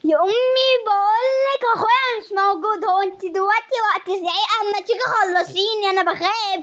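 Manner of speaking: fake-urgent arguing back; exasperated protest. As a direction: daughter acting fed up with mother's yelling. Daughter snaps back during prank.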